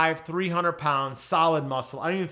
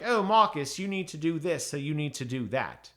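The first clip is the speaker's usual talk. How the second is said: mock British accent. Reviewer mocking the narrator's Anya, in a mild British accent. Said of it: "David narrated her as a Brit".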